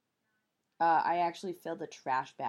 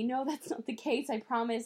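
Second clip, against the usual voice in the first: reassuring; 4 semitones higher than usual. Retold or imitated. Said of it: "she just kept reassuring me".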